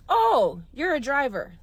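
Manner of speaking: mock an agent who has just caught on; sudden realization. Uber phone agent to a caller, sudden realization.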